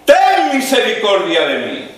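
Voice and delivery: grito agudo de súplica, más alto y fuerte; levantando la voz. Acted. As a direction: clama a Jesús por encima del gentío. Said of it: "levanta la voz y dice". (el ciego grita a Jesús entre la multitud, clamando)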